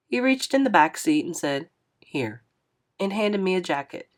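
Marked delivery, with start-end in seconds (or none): 2.0-2.4 a hint of a gentle older driver; lightly voiced older man. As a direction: lower and softer, kindly asking. Narrator voices Mister Lewis.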